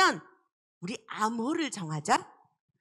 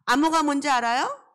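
louder rising question again to the class; loud call repeated; 5 dB louder than usual. Shown as a demonstration. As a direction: ask the class once more, out loud. (아이들에게 다시 크게 묻기)

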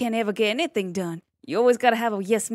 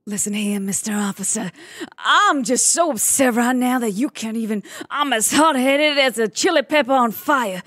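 a touch louder, hammed-up hot-headed rant; mock upset outburst; 3 dB louder than usual. Asked to act really upset for the interviewer, mock angry rant. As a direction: play being fed up with the officer, half in jest. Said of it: "really upset. Do it now".

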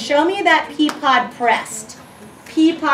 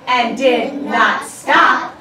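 getting louder at the end; 3 dB louder, slower than usual. Shown as a demonstration. Teacher reading the poem's exclamation to the class, loud and excited. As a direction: read the poem's ending with rising excitement. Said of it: "why your voice got loud at the end".

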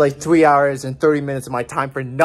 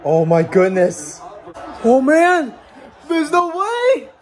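laughing disbelief; 9 semitones higher, 4 dB louder, slower than usual. Real, not acted. Live reaction to losing game.

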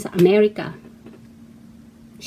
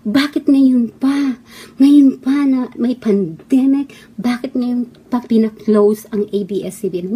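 mocking complaint. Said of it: "Lagi niyong sinasabi".

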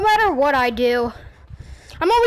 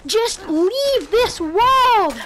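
whiny plea; 3 semitones higher, much slower than usual. Real, not acted. Pleading with enemy, cry heard.

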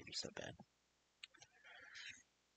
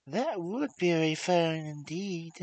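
ill-bred minx; 10 dB louder than usual. Acted. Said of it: "said this ill-bred minx".

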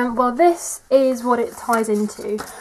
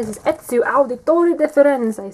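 put-on Italian accent; 3 semitones higher than usual. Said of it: "Sorry about my awful Italian accent".

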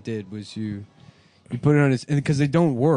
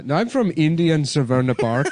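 put-on Indian accent; 3 semitones higher, 4 dB louder than usual. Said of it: "in an Indian voice".

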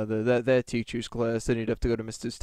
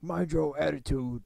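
higher, imitated Black American teacher voice; put-on Black American accent; 4 semitones higher than usual. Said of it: "make him talk like he's black".

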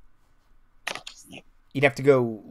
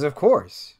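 high-pitched, louder, defensive protest; second overheard voice; 8 semitones higher, 5 dB louder than usual. Acted. Villain blamed by a partner for a blown plan, high indignant voice. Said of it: "And another voice says".

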